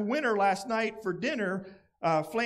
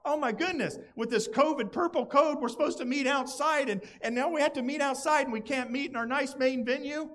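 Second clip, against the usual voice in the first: higher, whiny mock complaint; mock complaining; 4 semitones higher, faster than usual. Preacher imitating a grumbling churchgoer, higher whiny mock complaint. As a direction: play the grumbler moaning about covid rules. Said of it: "I could complain about".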